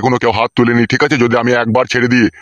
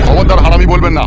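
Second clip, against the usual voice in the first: angry shout; 4 semitones higher, 6 dB louder than usual. Acted. Father shouts back at messenger.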